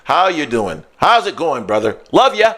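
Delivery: lightly put-on polished friendly greeting; professional voice. Shown as a demonstration. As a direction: switch on the professional persona. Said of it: "I can just turn it on right now and be very".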